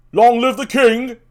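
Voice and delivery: loud, high proclamation; guard shouting the watchword; called out password. Acted. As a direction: call the password across the platform.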